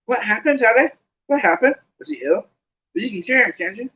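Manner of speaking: high, breathless excited questions; eager Colin. Acted. Colin dances alongside, asking eagerly and high. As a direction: pester them eagerly. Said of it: "now dancing alongside them".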